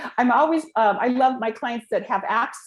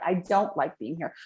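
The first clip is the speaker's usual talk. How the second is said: reluctant murmur; 6 semitones lower, 5 dB quieter than usual. Retold or imitated. What the body really says.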